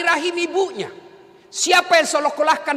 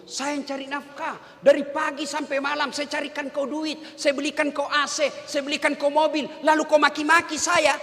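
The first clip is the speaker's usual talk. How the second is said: arrogant husband. Retold or imitated. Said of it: "Setan yang ngomong begitu".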